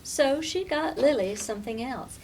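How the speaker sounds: usual speaking voice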